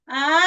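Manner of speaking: vowel laugh. Shown as a demonstration. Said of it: "On y va avec le A".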